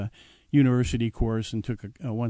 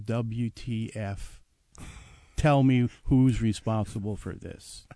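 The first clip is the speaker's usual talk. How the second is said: stunned demand; 3 semitones lower, much slower than usual. Retold or imitated. Chateau owner seeing his wine everywhere, slow stunned demand. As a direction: drag each word out, dumbstruck. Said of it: "he said".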